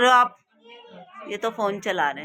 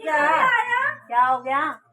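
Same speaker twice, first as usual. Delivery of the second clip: high, startled "what happened?"; sudden high surprised question; 5 semitones higher, much slower than usual. Real, not acted. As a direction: caught off guard, pitch jumps up. Mother reacts to child's shout.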